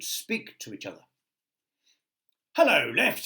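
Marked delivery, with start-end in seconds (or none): 2.6-3.2 high, loud little boot voice; talking boot. Acted. Right boot greeting the left boot, high and loud. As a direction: chirp it out like a cheerful boot. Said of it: "said the right boot".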